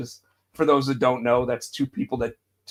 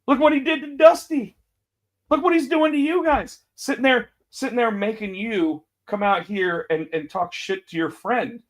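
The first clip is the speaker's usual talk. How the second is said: much higher, sneering Punk voice; mock Punk; 8 semitones higher than usual. Imitating Punk taunting the Usos, higher and sneering. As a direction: needle them in a higher voice. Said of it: "Punk just looks at him and goes".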